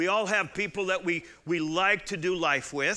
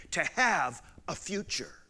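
whisper. Acted. Sermon peak drops to whisper.

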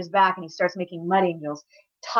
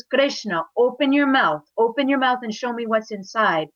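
higher, insistent motherly order; stern command; 5 semitones higher, 3 dB louder than usual. Acted. Mother prying son's mouth open, stern. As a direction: press him until he obeys. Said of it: "very sternly".

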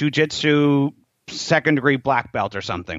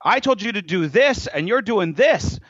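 higher-pitched emphatic scolding; correcting; 5 semitones higher than usual. Retold or imitated. Master showing Tony his mistake, high and insistent.

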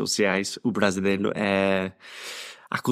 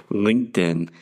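American accent. Shown as a demonstration. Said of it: "Eu vou falar com o sotaque americano".

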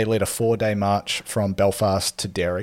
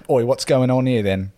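British bobby, pitched up; British accent; 4 semitones higher, 4 dB louder than usual. Acted. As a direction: put on a jokey British copper's accent. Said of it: "trying to do a British accent".

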